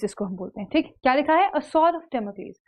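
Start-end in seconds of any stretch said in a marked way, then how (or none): 1.5-2.6 very slow, word by word; A sword of Damocles read out slowly, each word separate; slow dictation. Shown as a demonstration. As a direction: spell it out slowly for students. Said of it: "teaching the idiom slowly".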